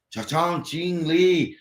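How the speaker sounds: mock Chinese gibberish. Pretending restaurant staff talk in Chinese, mock gibberish. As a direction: fake Chinese-sounding babble. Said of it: "you put it in Chinese".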